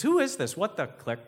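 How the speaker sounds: high, loud demand; alarmed babysitter. Acted. Babysitter challenging an unknown caller, high and alarmed.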